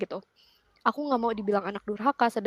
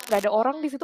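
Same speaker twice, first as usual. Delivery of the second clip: usual speaking voice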